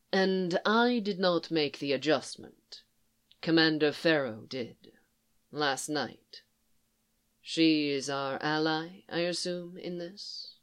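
even, composed commander speaking gently; a lightly voiced Thrawn, calm; Thrawn, calm and measured. Thrawn voiced low and soft.

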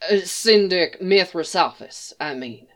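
gasping between words; winded, catching breath mid-phrase. Acted. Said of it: "between gasps".

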